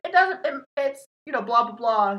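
high, loud stammering mimicry; mock someone fumbling for an answer; high-pitched flustered blather; flustered imitation. Mimics the flustered medium evading.

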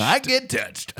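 very high put-on voice; mock-sentimental squeal. Joking with co-host about getting emotional, high mock-sentimental squeal. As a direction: squeak it out as a joke.

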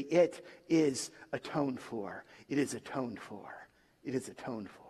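low and soft, fading to a whisper; dying repetition. Retold or imitated. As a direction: repeat it like last breaths ebbing away. Dying man repeats his last words.

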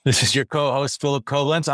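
a light attempt at a Montclair, New Jersey accent; mock New Jersey accent, only lightly done; a hint of New Jersey in the vowels. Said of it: "I'm trying to do the accent from Montclair, New Jersey".

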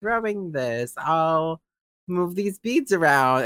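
imitated fake deliberation; mock stalling. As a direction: play someone pretending to think it over. Acting out Michael stalling.

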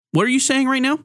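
what, wait, what are you saying; real surprise. Real, not acted. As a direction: genuinely caught off guard by the news. Hearing news from producer mid-show.

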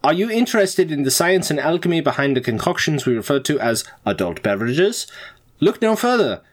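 formal school announcement voice; announcement read. Acted.

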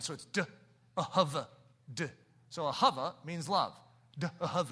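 "duh, ahava, duh" said as separate spelled-out sounds; Hebrew sound demo. Shown as a demonstration. Pastor teaching the students how David's name is built, as a sound demo. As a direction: build "ahavad" piece by piece: duh, then ahava, then duh. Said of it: "you stick a duh sound on the front end".

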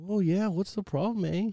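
a high, lilting mock Canadian "eh?"; a light Canadian accent send-up. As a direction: toss in a Canadian "eh" playfully. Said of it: "two words to have a Canadian accent".

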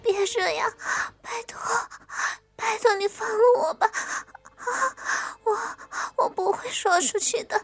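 tearful, trembling begging; crying plea. Acted. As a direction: beg through tears. Frightened girl begging to be released.

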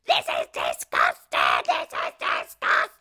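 low, loud mock disgust; woman shouting. A woman in the taxi queue, mock shouting in disgust. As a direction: drag out the disgust like a grump. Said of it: "this woman starts shouting".

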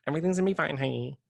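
life advice voice. Pretend. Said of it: "to speak in that voice".

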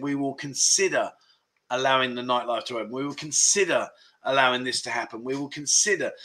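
quoting officials, lean on "consider" each time; repeated, deliberate emphasis on "consider"; weight the word "consider" in a measured official statement; stress on consider. Retold or imitated. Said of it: "so much emphasis on the word consider".

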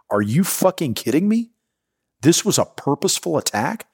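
half-shouted what-the-hell disbelief; reliving the moment the attack sank in, incredulous; stunned disbelief. Retold or imitated. Shocked realisation of an attack.

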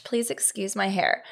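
mock livestream host apologizing; hammed-up fussing to an online audience; Facebook Live impression. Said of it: "My Facebook Live impression".

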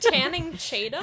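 disbelieving repeat of the slip; incredulous echo. Retold or imitated. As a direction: echo "Tanning Tatum?" amazed. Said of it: "How do you get that so wrong".

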